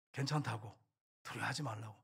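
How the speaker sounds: calmly soothe, voice dropped low; calm reassurance. Retold or imitated. General reassuring his family in the storm, calmly. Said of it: "가족들을 안심시키는 거예요".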